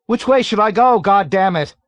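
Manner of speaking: very high, loud suffering shout; furious high-pitched shout. A narrator's reading. Pilot Makwat shouts furiously over the intercom. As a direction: yell furiously, voice strained high. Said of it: "shouted furiously ... high-pitched voice".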